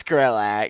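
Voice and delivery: The name drawn out slowly, each syllable spelled clearly; slow careful pronunciation. Shown as a demonstration. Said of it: "it's pronounced like that".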